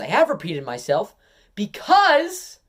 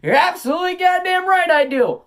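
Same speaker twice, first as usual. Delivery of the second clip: higher, louder, voice changed for the repeat; bigger boast; 7 semitones higher, 4 dB louder than usual. Acted. Wrestler topping his own line, higher and bolder. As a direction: crank it up and hammer it home. Heel promo escalation of same line.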